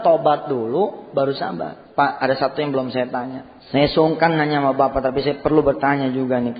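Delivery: usual speaking voice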